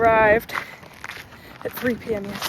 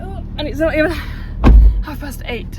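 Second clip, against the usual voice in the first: amused emphasis; 5 semitones higher, 8 dB louder, slower than usual. Real, not acted. Amused, not even half eight.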